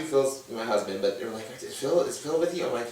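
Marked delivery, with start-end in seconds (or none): 1.6-2.6 fussing family. Retold or imitated. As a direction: pile on the worried questions. Family asks again.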